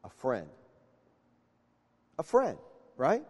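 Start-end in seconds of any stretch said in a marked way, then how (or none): 0.0-0.5 softly, much lower and under the breath; hushed reveal before repeating it; quiet answer. Shown as a demonstration. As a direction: drop it almost to a murmur. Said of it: "answers his own question softly".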